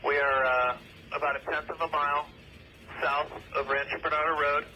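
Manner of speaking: police radio. Real, not acted. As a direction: voice over a two-way radio. Radio traffic at crash scene.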